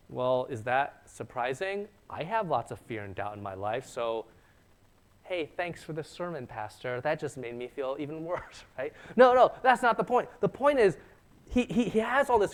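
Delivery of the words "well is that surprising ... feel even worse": mock listener. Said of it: "'cause if you're like".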